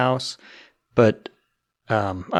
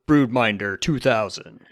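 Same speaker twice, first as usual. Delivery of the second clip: monster truck ad. Pretend. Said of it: "monster truck voice commercial".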